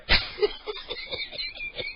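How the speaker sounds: long squealing laugh; high squealing laughter. Real, not acted. Caller squeals with laughter at the furious victim. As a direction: squeal helplessly. Laughing fit after the insult.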